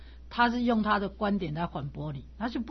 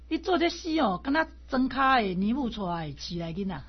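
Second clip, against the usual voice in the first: mock fierce scolding; 2 semitones higher than usual. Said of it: "好凶哦".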